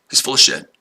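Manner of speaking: hushed aside; whispered jab. Real, not acted. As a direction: whisper the verdict. Taunting a troll in chat.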